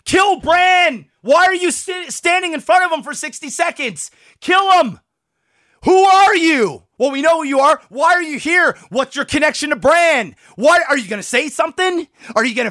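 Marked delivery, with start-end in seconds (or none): 0.0-6.8 real exasperated yelling, pitched up; pissed off. Real, not acted. Fan yelling at the Night King to act, pissed off. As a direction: yell at the character in exasperation. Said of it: "I'm pissed".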